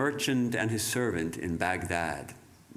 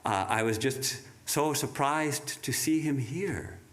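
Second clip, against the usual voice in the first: a lightly voiced gentle, polite Death; 4 semitones higher than usual. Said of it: "And Death was very polite".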